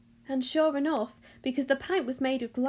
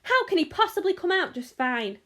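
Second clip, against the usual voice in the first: high, indignant retort; snapped; 6 semitones higher, 4 dB louder than usual. A narrator's reading. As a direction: snap back at his reassurance. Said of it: "snapped Missus Gloop".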